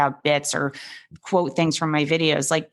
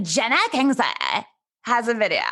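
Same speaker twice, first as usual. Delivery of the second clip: higher mock host voice; 5 semitones higher than usual. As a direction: imitate a host making fun. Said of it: "she was making fun of my voice".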